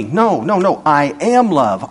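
a slow, firm God, lightly voiced; God speaking slowly. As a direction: let God say it patiently and slowly. God insists.

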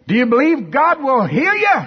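high, loud challenge; yelling across street. Retold or imitated. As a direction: call it out to someone far off. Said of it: "He yells at, across the street".

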